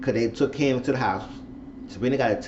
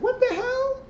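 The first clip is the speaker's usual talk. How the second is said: much higher, laughing in disbelief. Real, not acted. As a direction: crack up at how dumb it is. Reacting to spare key, laughing.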